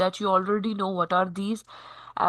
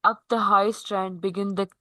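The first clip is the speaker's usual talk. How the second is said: poem reading. Acted. Teacher reading the first stanza to the class, measured recitation. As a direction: read the verse aloud phrase by phrase.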